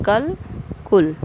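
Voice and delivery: "कल" with short a, then "कुल" with short u, clearly separated; contrasting vowel sounds. Shown as a demonstration. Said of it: "बोलिए और अंतर समझिए".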